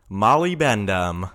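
slow and loud, like lips gone numb. Retold or imitated. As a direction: slur it slowly through swollen lips. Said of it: "Somebody was stung by a bee on the lip".

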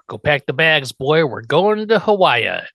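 put-on excited dad rallying his boy; excited announcement. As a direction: announce the trip with eager punch. Acting out Herman's excited announcement.

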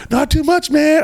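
high, hyped-up rocker answer; hearty shouted reply. Retold or imitated. Bassist answering a fan by the stage, high and hyped. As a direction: imitate an amped-up bassist calling back.

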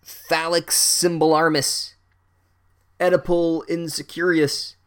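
high, loud, drawn-out parody incantations; hammed-up duelling cry; mock spell yell. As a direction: bellow fake spells slowly and grandly. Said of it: "Sue Grafton yells out".

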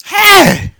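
put-on very high, loud drunken shout. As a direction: bellow it drunkenly.

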